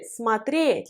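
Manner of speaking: смотреть stressed on the final е; stress on the ending. Shown as a demonstration. Teacher recalling the infinitive, смотреть stressed on final е. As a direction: hit the "ye" in смотреть. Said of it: "l'accent sur le yé".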